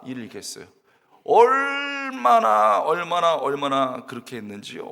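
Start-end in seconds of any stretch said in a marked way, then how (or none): 1.2-2.8 long, loud, high stretched 얼마나; preacher stretching 얼마나 for effect; drawn-out emphasis. Acted.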